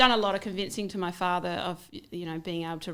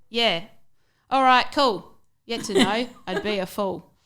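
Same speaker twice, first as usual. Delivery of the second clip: rhythmic rhyming poem reading; poem recital; 4 dB louder than usual. Acted. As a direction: recite it like performance poetry.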